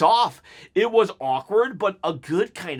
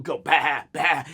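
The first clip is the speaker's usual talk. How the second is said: goat bleat; 2 semitones lower than usual. Pretend. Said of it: "Goated, how do you do it?".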